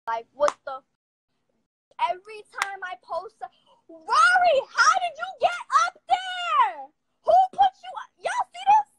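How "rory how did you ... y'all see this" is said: high sing-song cooing, a little louder; pet talk. Real, not acted. Cooing at her pet Rory.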